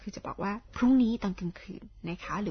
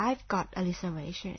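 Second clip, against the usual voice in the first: slow model sentence; 3 semitones lower, 6 dB quieter, much slower than usual. Shown as a demonstration. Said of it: "เราก็บอก".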